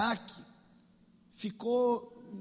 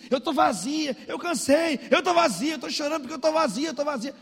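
high wailing imitation, growing louder; tearful, nonstop repeating; 5 semitones higher, 4 dB louder than usual. Crying girl pours out her emptiness, imitated relentless wail. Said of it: "começou a repetir sem parar assim".

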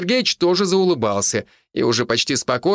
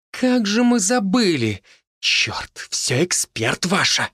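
slow high hiss, last words breathy; 8 semitones higher, slower than usual. A narrator's reading. Healer resenting the expert, hissing. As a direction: hiss it out in spite. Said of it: "прошипела женщина".

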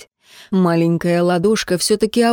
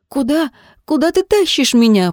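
resisting; 6 semitones higher than usual. A narrator's reading. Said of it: "попыталась сопротивляться Джемма".

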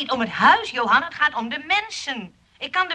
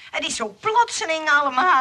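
flustered laugh; 5 semitones higher than usual. Acted. Flustered at proposal.

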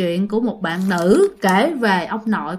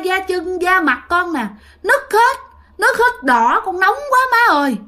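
ghost's lament; 8 semitones higher than usual. Retold or imitated. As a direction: cry out to your mother that your skin is burning, pitched very high. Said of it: "còn nói với là bà nội".

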